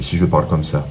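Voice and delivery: second, contrasting speech rate; pacing demo, a touch held back; delivery-rate demo, second take. Shown as a demonstration. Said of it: "Le débit".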